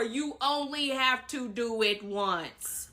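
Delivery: "you only have to do it once" slowly, word by word. Shown as a demonstration. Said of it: "I'ma say it slower".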